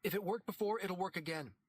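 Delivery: a hint of a hopeful woman; character voice. A narrator's reading. Character speaks in story.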